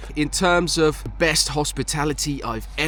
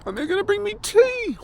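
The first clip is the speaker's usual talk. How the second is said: excited; 3 dB louder than usual. Real, not acted. Excited about tea coming.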